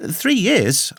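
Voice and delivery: high-pitched exclamation; astonished cry. A narrator's reading. Young narrator to a castaway on hearing how long, high astonished cry. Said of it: "I cried".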